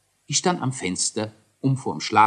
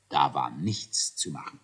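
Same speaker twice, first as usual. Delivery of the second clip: soft resigned whisper; 8 semitones lower, 6 dB quieter than usual. A narrator's reading. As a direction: breathe it out as a whisper. Narrator gives up, aside.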